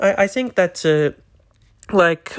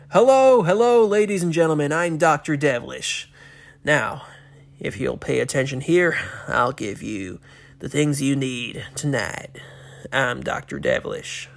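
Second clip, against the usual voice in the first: put-on host's American accent. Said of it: "that's the one thing I kind of sucked at, American accents".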